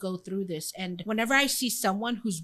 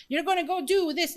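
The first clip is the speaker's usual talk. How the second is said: mock Russian accent; 8 semitones higher than usual. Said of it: "I can't do accents".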